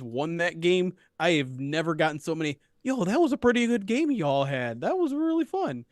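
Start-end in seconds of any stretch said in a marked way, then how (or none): 2.8-5.9 put-on Minnesota accent. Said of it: "I tried to do a Minnesota accent".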